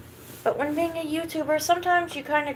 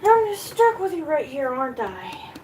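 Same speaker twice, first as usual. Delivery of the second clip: pet talk; 3 semitones higher, 3 dB louder than usual. Real, not acted. Teasing the dog.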